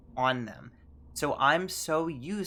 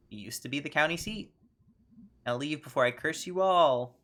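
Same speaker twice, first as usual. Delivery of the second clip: pompous ghost mayor. Acted. Ghost mayor founding the festival, in a grand decree voice. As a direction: proclaim it like a mock-solemn ghost mayor.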